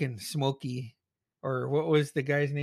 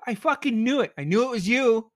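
triumphant shout; 9 semitones higher, 5 dB louder than usual. Real, not acted. Reveal, yelling at screen.

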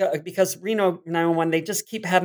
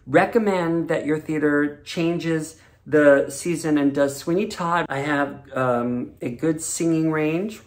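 goofy auditioner. Retold or imitated. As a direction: play the clueless eager auditioner. Reenacting his comedy audition video.

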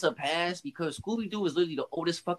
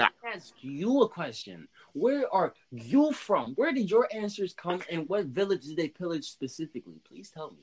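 Doctor Umar impression; 4 semitones higher than usual. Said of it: "just go on Doctor Umar shit".

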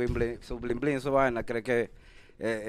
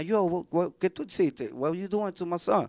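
angry father; 5 semitones higher than usual. Retold or imitated. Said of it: "mi papá venía".

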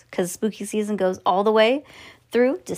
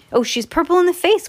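higher, louder exclamation of alarm; crying out; 8 semitones higher, 5 dB louder than usual. Acted. Grandpa Joe spotting Violet, a loud high cry. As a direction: call it out, pitched up and louder. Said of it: "cried Grandpa Joe".

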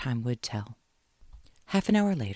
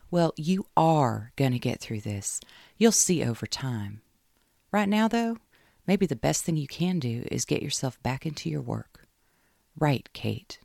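reassuring friend; 3 semitones higher than usual. Acted. Caroline reassuring heartbroken Kate, gentle then brighter. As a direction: talk her down gently, then lift her up.

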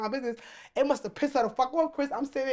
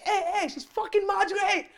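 laughing while quoting; 10 semitones higher than usual. Retold or imitated. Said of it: "they're like".

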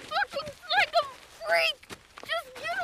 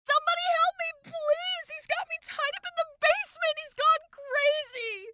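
screaming for help. Acted. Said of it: "Amber screams out for help".

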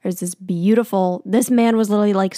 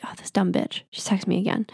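whispered mock jock; 6 dB quieter, faster than usual. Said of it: "He definitely was like".

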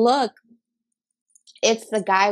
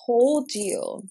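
slow, drawn-out scolding "I told you"; retold anger; 3 semitones higher, much slower than usual. Driver to her friend at the red light, retold anger. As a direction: stretch each word in exasperated reproach. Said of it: "I was so angry".

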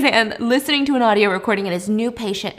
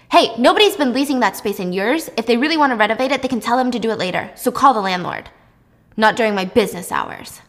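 irritated boss; 3 dB louder than usual. Acted. Doctor rushes in, annoyed at noise.

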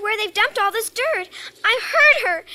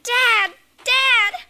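calling out; 2 semitones higher, 4 dB louder than usual. Acted. Girl calling after father.

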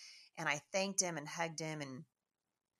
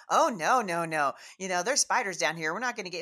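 put-on loud, raised protest of dismayed children; mock alarmed kids; 3 semitones higher, 10 dB louder than usual. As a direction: refuse loudly, imitating spooked kids. Kids refuse horror-movie shower.

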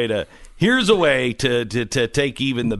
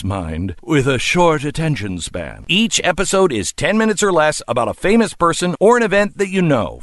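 ad read. Acted. Reads a podcast ad.

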